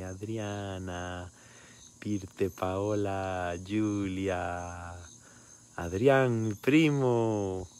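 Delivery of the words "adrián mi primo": louder, higher, delighted shout-out; thrilled to see cousin Adrián; excited greeting. Real, not acted. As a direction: call out his name with joy.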